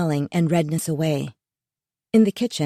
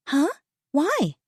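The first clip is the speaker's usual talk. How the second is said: puzzled; 10 semitones higher than usual. Acted. Daughter puzzled.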